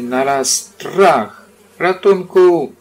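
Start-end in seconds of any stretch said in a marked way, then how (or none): 1.8-2.7 high, loud cry for help; shouted for help. A narrator's reading. Pooh falling from the oak, shouting for help. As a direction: yell it out as you fall. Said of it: "zawołał Puchatek".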